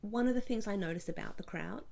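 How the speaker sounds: hoarse whisper; whispering hoarsely. Real, not acted. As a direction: voice almost gone. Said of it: "I'm losing my voice a little bit".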